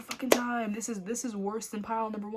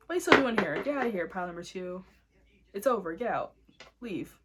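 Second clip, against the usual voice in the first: mock shooing yell; 7 dB louder than usual. Shooing pile away jokingly.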